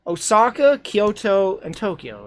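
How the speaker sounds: rising, questioning list of cities; checking herself as she names them; unsure listing. Real, not acted. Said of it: "Is that what I said?".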